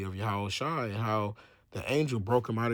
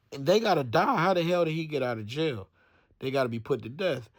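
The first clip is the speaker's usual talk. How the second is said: retold anger, raised voice settling down; mad; 4 semitones higher than usual. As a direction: act out an outraged order, then ease off. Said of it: "He was, he was mad".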